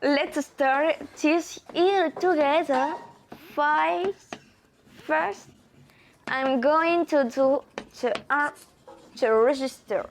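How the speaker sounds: put-on French-accented English. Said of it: "bonjour mon accent".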